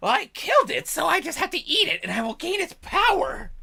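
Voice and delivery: high raspy goblin, proud of its simple logic. Acted. GM voicing a goblin's logic to the players, in a high raspy goblin voice. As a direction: squeak out goblin reasoning, pleased with yourself. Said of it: "goblin voice".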